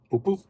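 high little boops; imitated car chime. Showing viewers the gear chime, imitated boops. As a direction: mimic a chime in two short high notes.

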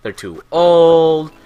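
whiny quitter. Retold or imitated. Viewer quitting the channel, mock whiny voice. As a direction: imitate the complaining fan, dragging out the end. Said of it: "he's like".

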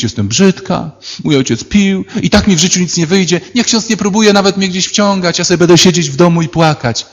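mocking a whining girl, pitched high; whiny self-pity. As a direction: mimic a self-pitying young woman. Mocking young women's self-pity. (przedrzeźniane użalanie się nad sobą)

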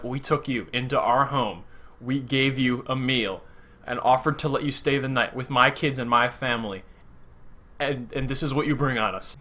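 soft, measured, wounded accusation; imitated farmer's hushed disappointment; quiet acted reproach. Voicing betrayed farmer facing Logan.

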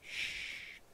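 unvoiced hush; breathy shh to keep quiet; shushing. Hushing while sneaking.

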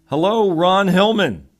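high, loud, drawn-out welcome; big hello. Real, not acted. Interview host welcomes his sales guest, big drawn-out hello. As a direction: call out the guest's name like a show host.

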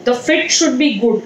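ordinary talk, nothing marked

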